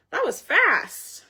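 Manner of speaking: slow whispered aside. Real, not acted. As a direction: breathe it out slowly, unvoiced. Surprised aside about quick delivery.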